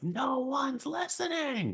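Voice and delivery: very high, shrieking, screaming outburst. Retelling a scene from an episode: imitating Andor screaming. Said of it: "he's screaming".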